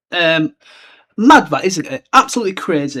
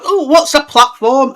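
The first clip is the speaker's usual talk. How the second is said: higher, slow, playing dumb; a dotty mother, pitched up, drawn out; mock clueless Molly; 9 semitones higher, 5 dB louder, slower than usual. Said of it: "yet she's like".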